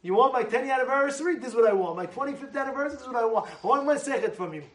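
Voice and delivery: normal talking voice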